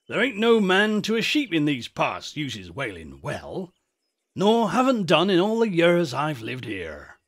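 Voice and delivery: lightly voiced country shepherd; a touch of rustic old-timer, explaining to youngsters.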